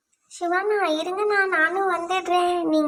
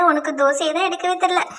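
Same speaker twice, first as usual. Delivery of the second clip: teasing laugh. Acted. Teases cook about dosa.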